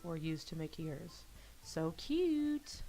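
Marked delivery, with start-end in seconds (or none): 1.6-2.8 put-on very high, girlish squeal; high-pitched anime-girl gushing; gushing delight. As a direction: squeal over something adorable. Gushing over cat-shaped cupcakes.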